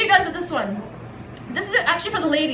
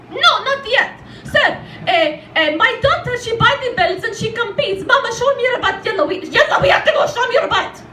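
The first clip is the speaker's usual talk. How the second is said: put-on higher, excitable Arab-accented mom; mother's Arab accent; 5 semitones higher than usual. Mother bragging to a man about her bodybuilder daughter, Arab accent.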